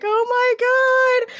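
squealing high, slow and drawn-out; high, stretched-out childlike squeal of delight; excited kids. Retold or imitated. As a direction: gush like a thrilled little kid. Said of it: "They were just like".

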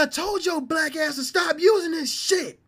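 high, loud mock scolding; furious mom. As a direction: scold the son at full tilt. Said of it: "She said".

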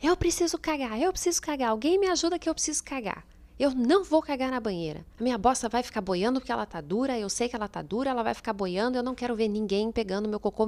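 high, loud panicked shouting; frantic shouting. Retold or imitated. Mother in labour yelling at the midwife, high frantic shout. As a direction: yell it like you can't hold on.

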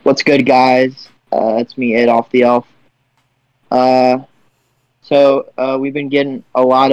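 Adolf the Elf. Pretend. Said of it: "I'll do an Adolf the Elf impression".

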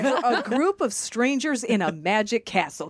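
slow mock scolding breaking into laughter; exasperated self-talk. Nervous performer scolding herself before a seance, mock exasperated.

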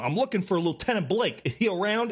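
a hint of a foreigner faking American; terrible American accent. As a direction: lightly imitate a botched American accent. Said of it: "like, a terrible, um, American accent".

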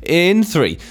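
a light imitation of the host, slow intro; Joel's presenter voice. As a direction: lightly mimic the host announcing the track. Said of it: "Hey, Joel, I'm doing you".

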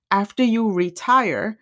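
retire drawn out for emphasis; slow down and lean on the word retire; deliberate, emphatic weight on retire; stress on retire. Real, not acted. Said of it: "I emphasize the word retire".

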